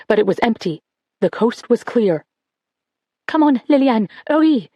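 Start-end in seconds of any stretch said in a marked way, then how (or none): 3.3-4.7 higher, hurried urging; urgent. A narrator's reading. Girl hurries sister to the window, urgent. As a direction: hurry your sister along. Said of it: "she said urgently".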